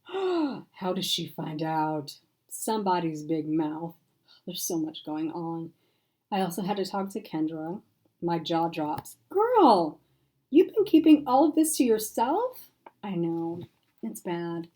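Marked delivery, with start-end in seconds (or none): 0.1-2.2 shocked gasp. Acted. 9.3-12.7 loud, high-pitched disbelief; shocked. Acted. Jaw drops, shocked.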